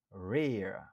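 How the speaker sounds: Rare said alone and firm; stressed syllable pulled out. Shown as a demonstration. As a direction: isolate the stressed reer. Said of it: "Nou aksantye sou dezyèm nan".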